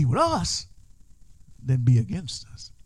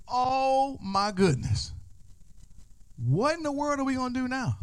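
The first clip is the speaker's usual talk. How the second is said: panicked servant; 9 semitones higher than usual. Acted.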